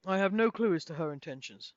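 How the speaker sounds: a lightly voiced grave wizard deciding the party's path; measured wizard. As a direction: speak like a wise old counsellor.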